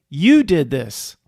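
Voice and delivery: loud, drawn-out indignant blame; angry accusation. Real, not acted. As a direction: throw the blame back, slow and loud. Accusing the rule makers in rant.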